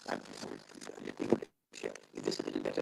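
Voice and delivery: faint crackling connection; breaking up on bad line; loose cable crackle. Real, not acted. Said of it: "Now you're not audible at all".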